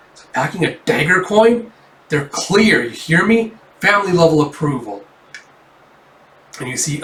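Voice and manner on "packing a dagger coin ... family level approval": exasperated. Acted. Officer exasperated at partner.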